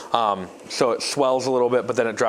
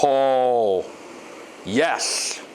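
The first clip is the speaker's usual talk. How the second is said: excited. Real, not acted. Success after adjusting the blower.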